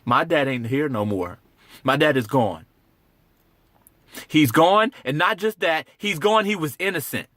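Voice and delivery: building anguish. Acted. Son insisting his innocent dad is gone, anguish building. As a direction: let the hurt push the voice up. Acted grieving son losing control.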